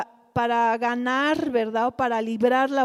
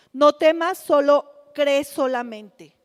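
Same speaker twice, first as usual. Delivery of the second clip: louder, pressing each word; emphatic urging; 2 semitones higher, 6 dB louder than usual. Acted. Preacher urging the congregation with Jesus's words, loud and insistent. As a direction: call it out like a rallying cry.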